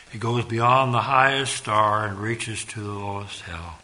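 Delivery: recited hymn verse, swelling then fading; hymn recitation. Acted.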